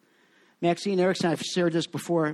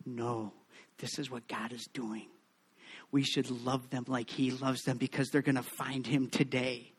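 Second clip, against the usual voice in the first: soft, gentle correction; calm the gossips kindly; hushed, tender reassurance; 7 semitones lower, 12 dB quieter than usual. Retold or imitated. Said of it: "Maxine would so gently say".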